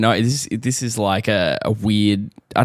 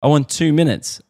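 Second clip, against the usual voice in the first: put-on child insisting; 7 semitones higher than usual. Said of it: "She goes".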